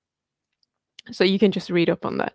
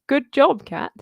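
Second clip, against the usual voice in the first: high, loud congratulating call; excited praise; 6 semitones higher, 5 dB louder, slower than usual. Real, not acted. Congratulating a viewer on her breakfast, excited high praise. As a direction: cheer Kat on warmly and loudly.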